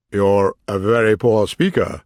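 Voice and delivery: a haughty, dismissive king; scornful king voice. Acted. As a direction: sneer at the witness like a king.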